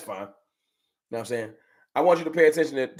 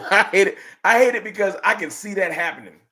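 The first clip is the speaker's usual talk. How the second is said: laughing frustration; 4 semitones higher, 4 dB louder than usual. Real, not acted.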